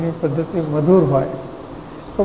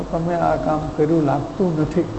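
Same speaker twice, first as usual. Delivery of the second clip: softer, polite reproach; gentle, tactful phrasing; 2 semitones lower, 6 dB quieter than usual. Shown as a demonstration. Teacher showing listeners the gentle way to point out undone work, soft and tactful. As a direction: ease the criticism in kindly. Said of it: "એમ કહેવું".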